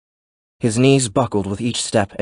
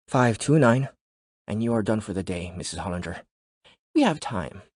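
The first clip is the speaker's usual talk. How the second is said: soft seductive trainer; 5 dB quieter than usual. Acted. Juan's seductive voice.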